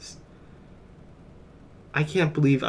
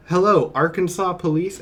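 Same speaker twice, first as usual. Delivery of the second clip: higher, pleading call to the police; mock frantic caller reporting a spider attack; mock emergency phone call; 5 semitones higher, 3 dB louder than usual. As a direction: ham up a panicked call for help. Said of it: "Be like".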